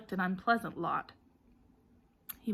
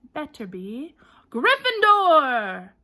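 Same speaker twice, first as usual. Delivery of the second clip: high, loud, slow shout; decide and cry it out to the hall; slow decisive shout; hat shouting; 6 semitones higher, 11 dB louder, much slower than usual. A narrator's reading. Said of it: "the hat shout the last word".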